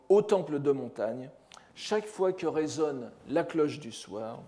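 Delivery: measured, deliberate reading of a poem; poem read aloud by a lecturer; poem recitation. Acted. Reads out translated poem.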